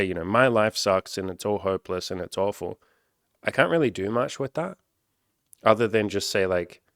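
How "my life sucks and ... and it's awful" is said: lightly voiced mopey commenter; a hint of a moaning complainer; mock gloomy comment; whiny commenter. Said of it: "So if you just say".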